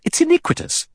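high breathy outcry; shocked, breathless protest; crying out. A narrator's reading. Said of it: "Vera cried out".

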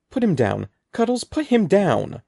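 panicked teacher shouting commands; screaming. A narrator's reading. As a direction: scream at the hamster to drop the boy. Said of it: "Mister Murphy was screaming".

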